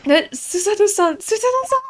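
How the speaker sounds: loud, high cry of the name; alarmed calling out. Acted.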